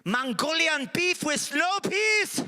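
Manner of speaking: shouted order. Acted. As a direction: bellow the order across the room. Shouting a restaurant menu number.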